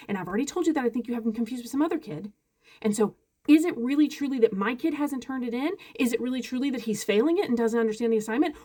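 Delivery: mildly irritated, emphatic retelling; frustrated. Retold or imitated. Parent pushing back at teacher over being blown off, frustrated. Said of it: "because I'm in a bad mood".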